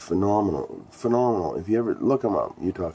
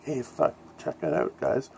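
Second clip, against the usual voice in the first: much higher, gleeful voice; imitating a folk singer; 9 semitones higher, 4 dB quieter than usual. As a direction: pitch up like a prankster showing off a toy. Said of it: "He's like".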